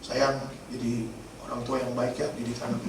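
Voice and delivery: low, very soft imitation of tender words; hushed, halting plea without real sobs; retold tearful words. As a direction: quote a moved spouse, voice dropped. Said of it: "Dia bilang, dia nangis kan".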